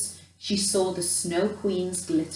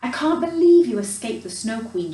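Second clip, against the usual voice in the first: louder, overjoyed exclamation; joyful cry; 2 semitones higher, 6 dB louder than usual. Acted. Grandmother welcoming Gerda and Kay home, joyful louder cry. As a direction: burst out with relief and delight. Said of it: "she cried over and over".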